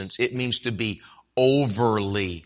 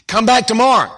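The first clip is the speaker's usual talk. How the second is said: exasperated neighbor; 10 semitones higher, 8 dB louder than usual. Acted. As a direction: drag out "leave me alone" in exasperation. Neighbor refuses from inside.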